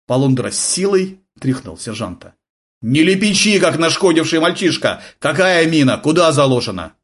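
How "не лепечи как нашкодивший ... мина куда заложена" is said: louder, sharp demands; angry interrogation. A narrator's reading. Polundra pressing the sergeant hard, angry.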